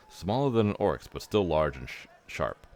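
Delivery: a hint of a gruff half-orc; lightly voiced mocking half-orc; Ragongar voice. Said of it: "I can only do the Ragongar voice".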